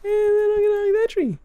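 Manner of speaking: very high cartoon squeak; squeaky high voice. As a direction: squeak it out playfully. Playing as the bear.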